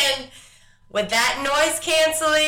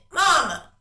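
lightly voiced nagging kid, falling each time; kids' constant mama. Mother imitating her kids' endless mama calls. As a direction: drone mama over and over like a toddler. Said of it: "that constant".

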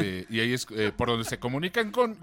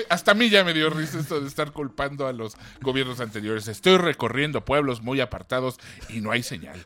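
Andrés Manuel voice; 2 semitones lower than usual. Retold or imitated. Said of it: "Porque habla como piporro, señor Andrés Manuel".

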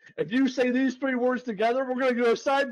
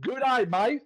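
Australian accent demo. Shown as a demonstration. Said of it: "with an Australian accent".

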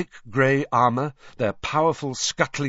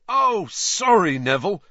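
shouting over laughter; 10 semitones higher, 5 dB louder than usual. Acted. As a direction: call it out over the crowd. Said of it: "Fred shouted over all the laughter".

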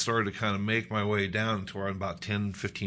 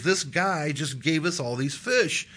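high, louder, drawn-out amazement; acted excitement; 7 semitones higher, 5 dB louder, slower than usual. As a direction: share unbelievable good news, slowly and pitched up. Excitedly tells wife about fish.

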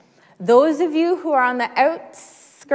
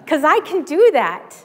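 laughing; 4 semitones higher, 4 dB louder than usual. Real, not acted.

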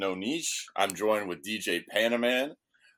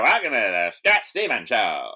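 auctioneer voice; 2 semitones higher, 8 dB louder than usual. Pretend. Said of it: "I could just be like".

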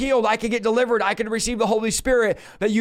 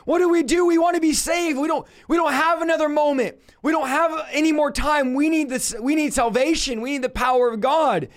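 raised, pleading cry of the crowd; mock crying out; 4 semitones higher than usual. Men crying out to Peter, pleading raised voice. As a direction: cry out like desperate men begging. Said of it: "what the men are crying out".

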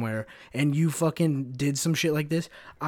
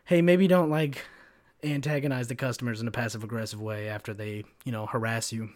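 vague manager; 2 semitones lower than usual. Retold or imitated. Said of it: "tell you some really vague shit like".

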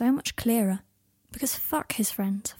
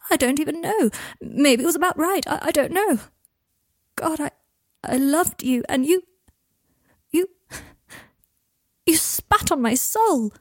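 higher, louder hurt outburst; Draco, wounded; 6 semitones higher, 4 dB louder than usual. Acted. Draco tells Harry he spat on his soul, raw. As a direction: lash out from a broken heart.

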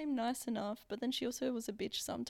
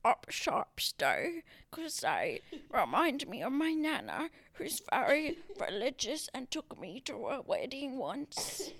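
slow, slurred cursive-singer vowels; badly faked cursive, stretching the words; talking in cursive; 3 dB louder than usual. Guest answering nostalgia question on a dare, cursive voice. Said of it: "dare you to talk in cursive".

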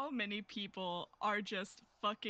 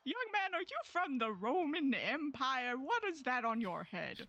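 character voice; 3 semitones higher than usual. Acted. Player voicing a character.

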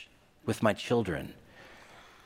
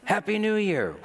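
secret gleeful greeting; 8 semitones higher than usual. Retold or imitated. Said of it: "in secret".

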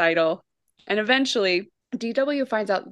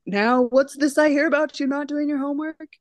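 a lightly voiced principal, higher; mock scolding from the principal; hint of a principal's reprimand; stern principal; 7 semitones higher than usual. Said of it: "Mister Haney is like".

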